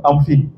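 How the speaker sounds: FINE said as "feen"; French i in FINE; mispronounced FINE. Retold or imitated. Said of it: "la personne va pas comprendre". (FINE prononcé « fine » à la française)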